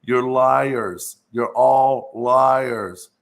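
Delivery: slow, loud and drawn out, every word weighed; angry accusation. Retold or imitated. Child accusing his parents of lying, slow and loud. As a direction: hurl the accusation at the parents as a kid. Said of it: "I come into the living room and I said".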